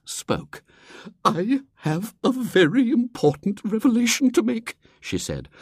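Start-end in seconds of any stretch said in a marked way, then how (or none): 1.2-4.8 put-on much higher, louder, thrilled old lady; bursting to share news; trembling with eagerness. Miss Hatherley announcing to the society, eager old lady. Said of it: "trembling with eagerness".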